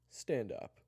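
high, loud short command; stern order. Acted. Kyler orders Eric to his feet, stern. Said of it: "looked at s-, Eric sternly".

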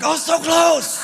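high, slow cry of near-miss regret; mock frustrated shout. Pine cone eater yelling at the pineapple hero, high and slow. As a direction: yell it like you just missed the prize. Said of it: "the guy eating the pine cone the week before was like".

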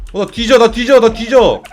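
loud, high panicked yelling; panicked shout. Real, not acted. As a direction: yell in panic as you die. Character about to die.

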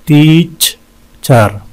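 "टीचर" very slow, long gap between syllables; wide syllable breakdown. Shown as a demonstration. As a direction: split "टीचर" with a clear pause. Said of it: "इसमें भी दो हैं". ("टीचर" बीच में लंबा रुककर)

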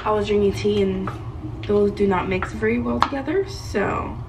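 talking around a toothbrush; while brushing teeth. Real, not acted. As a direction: speak with a brush in your mouth. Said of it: "I'm brushing my teeth right now".

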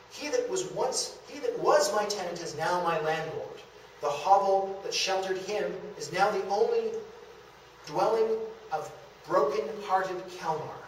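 old-style stage melodrama, lightly voiced; a hint of a hammed-up stage lament; melodramatic Kelmar. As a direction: declaim it like a Victorian stage miller's victim. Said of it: "Kelmar's opening speech in the original".

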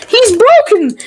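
cracking up at the screen; laughing. Real, not acted. Laughing at the game.

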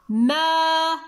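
مائدة with a long held maa, a break, then iidatun; stretched first syllable. Shown as a demonstration. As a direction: hold the maa of مائدة, pause, then finish it. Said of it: "أين سمعنا صوت الأل".

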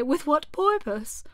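slow hushed whisper; whispered porpoise. A narrator's reading. Mock Turtle whispering what he'd ask the fish, hushed. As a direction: breathe it like a secret.

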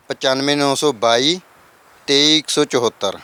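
slow digit-by-digit phone number; dictating the number slowly; slow dictation. Shown as a demonstration. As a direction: read ਪਚਾਨਵੇਂ ਨੌ ਸੌ ਬਾਈ slowly so viewers can note it. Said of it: "repeated number".

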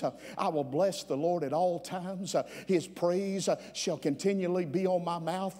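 pressing, rhythmic preacher's delivery; driving preaching. Real, not acted. Preacher declaring his resolve to the congregation, driving preaching. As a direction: preach it forward in punched phrases.

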